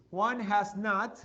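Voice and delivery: Juan has not drawn out, each word separate; slow model phrase. Shown as a demonstration. Teacher drilling Juan has not slowly for pupils. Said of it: "teacher models slow English".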